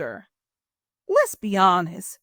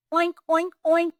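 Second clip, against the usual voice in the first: higher, snorty oink oink; pig oinks; 8 semitones higher than usual. Acted. Pig greets the disguised Turkey, higher oinks. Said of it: "snouted Pig".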